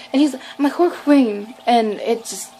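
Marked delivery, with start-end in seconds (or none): 0.7-1.5 "Horror Queen" blurted high and loud, slurred together; accent-mangled words. Retold or imitated. Nervous fan retries "Horror Queen", high loud mangled words. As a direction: force out "Horror Queen" in a thick garbled accent. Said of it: "my accent gets worse".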